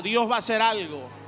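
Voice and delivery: mean it, say it out loud; said with conviction. Shown as a demonstration. Congregation answering the pastor, loud and sure. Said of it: "Pero dígalo de verdad".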